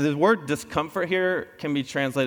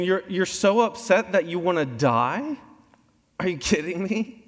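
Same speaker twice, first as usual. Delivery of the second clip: higher, exasperated disbelief; exasperated God; 5 semitones higher than usual. Retold or imitated. God rebuking Jonah's wish to die, mock exasperation. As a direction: ask it like he can't be serious. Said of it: "He's going".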